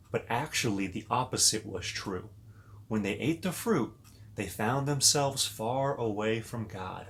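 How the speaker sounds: put-on storybook narration for little kids; reading to children. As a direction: read it like a bedtime story to children. Reads Bible story to kids.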